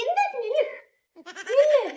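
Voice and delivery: loud sharp command; hit hard crying out. Real, not acted. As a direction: bark the order. Shouting at him to stand.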